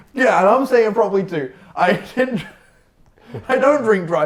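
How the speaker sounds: words broken by laughter. Insisting to the other speaker they don't drink and drive, laughing while talking. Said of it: "I'm laughing".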